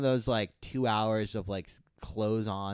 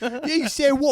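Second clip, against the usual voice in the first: shrill peasant voice; 10 dB louder than usual. Acted. Villager mocking.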